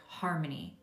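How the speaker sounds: a hint of a solemn old wise woman; wise crone. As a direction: retell her friend's advice as a calm, knowing crone. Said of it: "like she's this wise crone".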